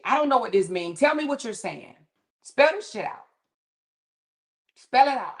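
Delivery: retold exasperation, pitch climbing high; exasperated demand. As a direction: re-enact an impatient demand for clear words. Acted replies to confusing slang texts.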